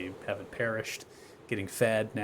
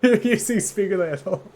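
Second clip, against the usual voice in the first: high, loud mock jab; 11 semitones higher, 11 dB louder than usual. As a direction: squeal the jab out. GM voicing mocking character.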